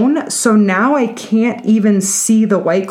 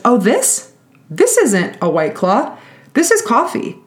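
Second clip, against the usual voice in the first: mock innocence; 5 semitones higher than usual. Client's feigned innocence, pitch leaps.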